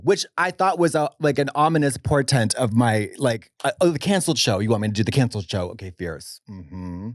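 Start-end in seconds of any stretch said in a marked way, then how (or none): 4.6-7.1 lightly faked Russian accent; a hint of a Russian accent. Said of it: "In a Russian accent".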